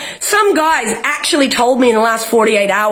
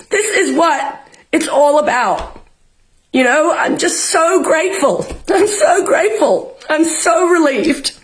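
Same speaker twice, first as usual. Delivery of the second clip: getting emotional; 4 semitones higher than usual. Real, not acted. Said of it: "I'm getting emotional".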